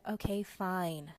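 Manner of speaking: slow, drawn-out mock reluctance; hesitant agreement. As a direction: imitate him giving in slowly. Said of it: "he hesitated but said".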